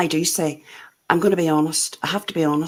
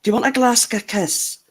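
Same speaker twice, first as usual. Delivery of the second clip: put-on Scottish accent; 3 semitones higher than usual. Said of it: "I could maybe do a Scottish accent".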